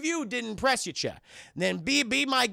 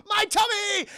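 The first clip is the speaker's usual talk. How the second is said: high, loud whiny cry; pained alien cry; 12 semitones higher, 4 dB louder, slower than usual. Retold or imitated. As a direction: wail about the hurt. Alien hurt, shouted high.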